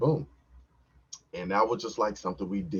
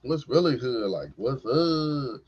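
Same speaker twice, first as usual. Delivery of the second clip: higher, louder pep talk to himself, rising to the end; hyped pep talk; 9 semitones higher, 4 dB louder than usual. Retold or imitated. Man talking to his own member, hyped pep talk. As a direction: pump him up like a coach. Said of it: "I'm talking to him like".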